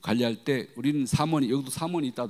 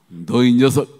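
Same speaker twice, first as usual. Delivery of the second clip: mock scolding; 11 dB louder, slower than usual. Father scolding daughter, retold.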